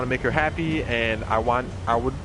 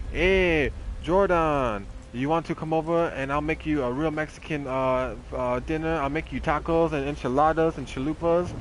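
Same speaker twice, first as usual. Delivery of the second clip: exaggerated Mexican accent. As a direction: imitate the neighbor in a put-on Mexican accent. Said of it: "Sorry for my really racist accent".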